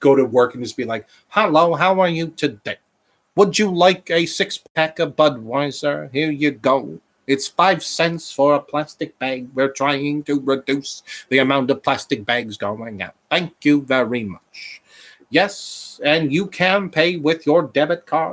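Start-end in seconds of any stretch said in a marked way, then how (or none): 1.3-18.3 put-on vintage old-time sportscaster announcer delivery. Imagining talking to customers at work, Howard Cosell impression. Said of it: "I just love this impression of".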